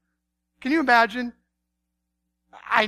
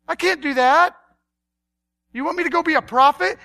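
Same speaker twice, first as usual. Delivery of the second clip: acted exasperated objection; helpless arguing back; protesting; 2 semitones higher than usual. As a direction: plead that it's impossible. Acts out protesting prophet arguing.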